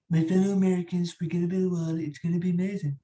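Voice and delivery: lightly voiced presidential impression; Donald Trump. Impressionist showing a stranger his politician voices, light Trump impression. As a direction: address the nation, lightly caricatured. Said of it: "Shout out Donnie Trump".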